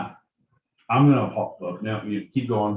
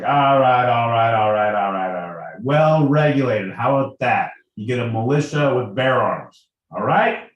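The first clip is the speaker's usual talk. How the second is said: lightly hammed-up placating politician; mock negotiator, talking them round; placating Madison; 4 dB louder than usual. Acting out Madison bargaining with objectors.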